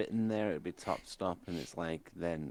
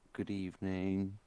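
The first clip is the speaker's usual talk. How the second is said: posh voice; 4 dB quieter than usual. Acted. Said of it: "in a posher voice than I normally speak".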